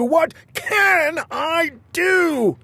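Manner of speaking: the despair spills over; wailing king. Acted.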